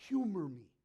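a sudden firm push; Jesus voiced loud and firm; firm loud command. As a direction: humor me, said loud and sure. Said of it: "He goes".

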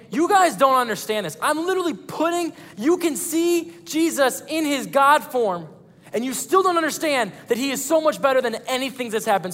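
as God, frustrated they don't get it; God exasperated. Acted. Pastor voices God scolding disciples.

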